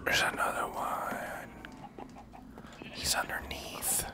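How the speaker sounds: hushed unvoiced whisper. Real, not acted. Streamer spotting a hidden mob, in a hushed whisper. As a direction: whisper so the mob won't hear.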